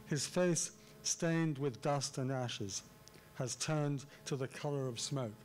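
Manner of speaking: deliberate beats on FACE, STAINED, DUST, ASHES, TURNED, COLOR, SMOKE; emphatic artificial reading. Shown as a demonstration. Lecturer bringing out seven stresses in verse, emphatic reading. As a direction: pause after "face", then weigh each key word down to "smoke". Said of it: "read it in a rather artificial way".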